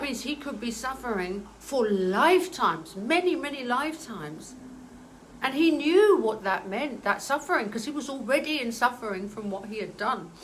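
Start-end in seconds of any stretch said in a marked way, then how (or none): 5.4-10.3 getting emotional. Real, not acted. Medium telling viewers about the father's sacrifice, moved. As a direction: voice lifting with real emotion. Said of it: "I'm getting emotional again".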